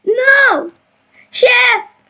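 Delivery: high-pitched cry of dismay at the chef; unhappy outcry. Pretend. President upset with the chef, high unhappy outcry. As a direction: call out high, playing displeased. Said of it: "Now I am not happy".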